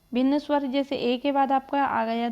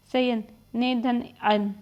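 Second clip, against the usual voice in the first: slow breakdown; slower than usual. Shown as a demonstration. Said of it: "यहाँ पे आपने सयन को तोड़ा".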